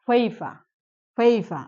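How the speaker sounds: "ফেইফা" ending in an open a, no R; silent final R. Shown as a demonstration. Teacher explaining a rule for word endings, silent final R. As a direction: model "ফেইফা" twice, final R dropped. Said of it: "এজন্য আমরা উচ্চারণ করার সময় বলবো".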